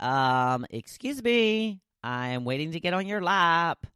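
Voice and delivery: lightly voiced sassy pet; the dog demanding the lap, mildly mock-indignant; dog's voice. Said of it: "She was staring at me like".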